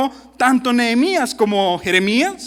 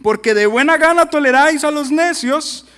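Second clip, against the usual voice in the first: sarcastic; 4 semitones higher, 4 dB louder than usual. Acted. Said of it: "Aquí el sarcasmo llegó a su cúspide".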